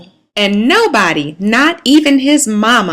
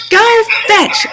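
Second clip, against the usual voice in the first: much higher, louder barked command; barked order; 11 semitones higher, 3 dB louder than usual. A narrator's reading. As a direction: bark it like a strict principal. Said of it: "barked Missus Bagalot".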